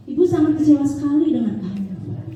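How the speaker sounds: a touch of a disappointed teacher pleading. Retold or imitated. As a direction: plead gently, no anger at all. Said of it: "Jadi kayak memelas".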